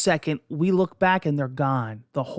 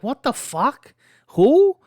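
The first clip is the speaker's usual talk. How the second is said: much higher, louder disbelieving shriek; shocked yelp; 10 semitones higher, 8 dB louder, slower than usual. Retold or imitated. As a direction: blurt it out, stunned and shrieking. Teller reacts to muffin family.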